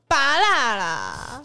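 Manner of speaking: slow, loud mock curse; mock angry. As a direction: snarl a fruit name like a swear. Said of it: "用很凶的语气去讲一些水果名".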